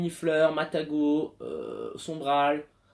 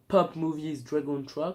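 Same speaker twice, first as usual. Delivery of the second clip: slow, hammed-up English accent; French and English words in mock English accent; put-on English accent; slower than usual. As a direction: draw it out in a silly English accent. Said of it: "Je vais arrêter avec cet accent".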